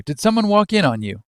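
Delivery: high-pitched, badly faked Australian accent; attempted Australian. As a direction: have a shaky go at an Australian accent. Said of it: "I can't do Australian".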